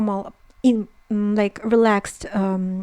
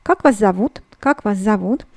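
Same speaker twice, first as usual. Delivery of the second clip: "Как вас зовут" with the pitch going up at the end; teacher demonstrating a rise on "зовут"; rising question intonation. Shown as a demonstration. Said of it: "the intonation in, uh, Russian questions go, uh, ha-, up".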